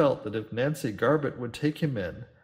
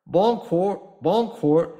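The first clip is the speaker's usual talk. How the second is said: a higher, louder friendly hail; captain hailing the gawking neighbours good-naturedly; good-humoured call; 7 semitones higher, 8 dB louder, much slower than usual. Acted. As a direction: call out cheerily to the windows. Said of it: "he called, at first good-humouredly".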